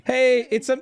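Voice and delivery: high cartoon Italian; bouncy Italian plumber voice; Mario voice. Mario impression with laugh.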